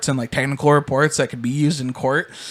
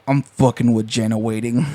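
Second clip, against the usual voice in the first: put-on low mumbling kid; 4 semitones lower than usual. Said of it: "He's like".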